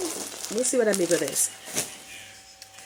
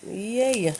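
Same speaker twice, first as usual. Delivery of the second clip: excited; 6 semitones higher than usual. Real, not acted. Cheering at the box.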